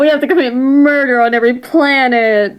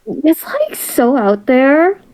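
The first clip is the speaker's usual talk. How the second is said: put-on Valley girl voice; slower than usual. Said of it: "could sound like a Valley girl".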